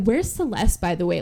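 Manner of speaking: offhand, imitated passing question; casual. Creditor asking after Celeste while collecting cash, casual. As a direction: toss it out as an afterthought. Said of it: "Like, kinda casually".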